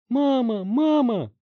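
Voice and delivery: high, loud cries for mom; screaming. Acted. Bloodied teen screaming for his mother in panic. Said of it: "закричал Барри".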